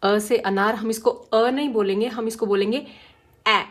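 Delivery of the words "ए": ए with the mouth a little open, short; open-mouth a sound. Shown as a demonstration. Teacher demonstrating the phonics sound, ए with mouth opened a bit. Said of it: "थोड़ा सा मुंह खोल के".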